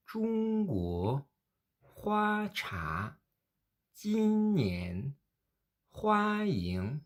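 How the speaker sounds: Zhongguo, Hua Cha, Jin Nian, Hua Ying : première syllabe haute et plate, seconde qui monte nettement; premier et deuxième ton modèle. Shown as a demonstration. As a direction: faire remonter franchement la seconde syllabe. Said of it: "Deuxième fois". (modèle premier ton puis ton montant)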